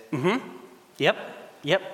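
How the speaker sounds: short, polite little agreeing noises; polite granny. Acted. Granny answers the Louvre lady, suddenly polite. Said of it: "suddenly switches into polite Granny".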